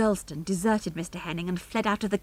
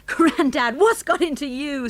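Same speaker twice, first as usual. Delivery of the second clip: raised, high-pitched astonishment; astonished; 7 semitones higher, 5 dB louder than usual. A narrator's reading. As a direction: ask it in bewildered amazement. Astonished son at sword-waving grandfather.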